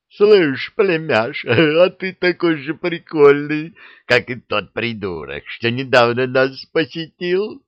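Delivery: high, slow giggly monster voice with a laugh; gleeful dragon head. A narrator's reading. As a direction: chortle it out like a merry beast. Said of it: "радостно сказала левая голова".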